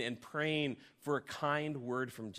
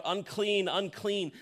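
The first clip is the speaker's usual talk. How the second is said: leper's cry; 5 semitones higher, slower than usual. Retold or imitated. Preacher voicing the leper warning townsfolk, mock call. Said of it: "He's shouting out".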